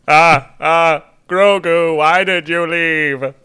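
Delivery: lightly voiced, slow brooding Luke; a hint of a cold Mister Freeze villain, drawn out; Luke with Mister Freeze tinge. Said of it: "giving him kinda like a Mister Freeze tinge".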